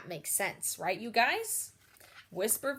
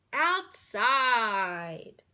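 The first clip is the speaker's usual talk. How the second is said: louder, very slow and drawn out; outside voice; 7 dB louder than usual. Shown as a demonstration. Teacher lists voice levels, outside one loud and slow. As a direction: stretch it out like calling across a field. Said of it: "make the right choice".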